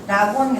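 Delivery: 락온 read the Korean way, no final k; imitating Korean reading. Teacher mimics students' misreading of lock on. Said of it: "락온 이렇게 읽거든".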